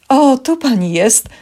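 high, loud, drawn-out exclamation; surprised greeting. Acted. Receptionist spots the woman she was seeking, surprised high call. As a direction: pipe up on finding someone.

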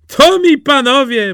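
high, loud hailing; bold exclamation. A narrator's reading. Simple Jack addresses the clerks, bold exclamation. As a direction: greet the threat with bravado.

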